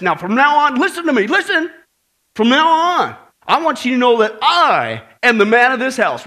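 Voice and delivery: booming, bossy husband voice; roaring tyrant king. Retold or imitated. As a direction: puff up and lay down the law. Bill commanding wife, finger pointed.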